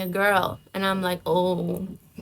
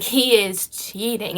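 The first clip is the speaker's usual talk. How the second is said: slow inner voice; much slower than usual. Retold or imitated. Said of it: "it was like".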